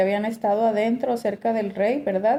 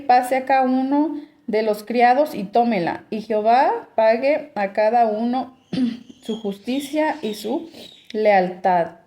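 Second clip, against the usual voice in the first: scripture reading; 2 semitones higher than usual. Acted. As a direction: read the passage out to the congregation. Reads scripture passage aloud. (lectura bíblica en voz alta)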